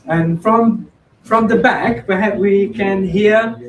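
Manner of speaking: calling out to the back; loud and slow; to someone hard of hearing. Real, not acted. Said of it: "Can you speak louder, please?".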